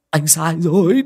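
begging the ghost to stop hitting; frightened plea. A narrator's reading. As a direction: cry out anh sai rồi, rising on rồi. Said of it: "đừng vả anh nữa".

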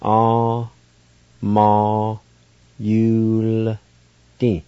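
Ah, ma, yul, di with the L joined to yu; Cherokee word for beach. Shown as a demonstration. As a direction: say yul as one syllable, then di. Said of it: "Like this".

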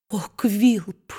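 sobbing. A narrator's reading. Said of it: "сквозь рыдание проговорила".

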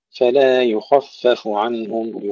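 slow recited فلا يخفف عنهم, dark خ and light ف; heavy kha, thin fa. Shown as a demonstration. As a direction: draw it out, full kha then thin fa in يخفف. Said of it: "تفخيم الخاء وترقيق الفاء". (فلا يخفف عنهم بتفخيم الخاء)

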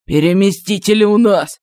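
strained demon voice; choked demon voice. A narrator's reading. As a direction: gasp it out while held.

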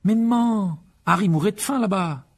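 high, loud objection to mum; pleading protest. A narrator's reading. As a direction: plead your case indignantly. Son protests against mother's scolding.

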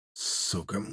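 low, very soft groaned curse; groaning. A narrator's reading. Wounded warrant officer curses his head wound, groaning. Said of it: "застонал прапорщик".

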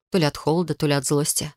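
ordinary delivery

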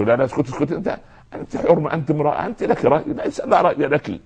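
high, sneering mock of a husband silencing his wife; mocking a dismissive husband. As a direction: imitate him scornfully shutting her down. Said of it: "شو". (سخرية من زوج يُسكت زوجته بصوت عالٍ)

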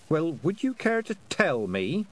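a lightly voiced girl asking the way; young girl asking. A narrator's reading. The speaker's girl voice.

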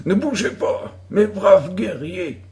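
rally your pretend army like a young chief; boy commanding his troops. A narrator's reading. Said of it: "dit-il à une troupe imaginaire".

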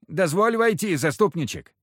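high, wheedling peasant whine; pleading peasant, pitched high; whining plea. Acted. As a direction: beg through the door in a high whine. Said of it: "заныли за дверью".

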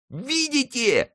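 very high, slow drawn-out call to the crowd; high boy's call. A narrator's reading. Friquet showing the crowd the pikes, high drawn-out call. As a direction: point it out to everyone. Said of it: "кричал Фрике".

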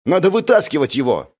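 barked. A narrator's reading. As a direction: bark an order in an emergency. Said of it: "рявкнул Йонжу".

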